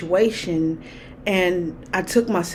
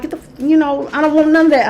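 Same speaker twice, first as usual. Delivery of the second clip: mock hostile; 6 semitones higher, 7 dB louder, faster than usual. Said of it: "I'm like".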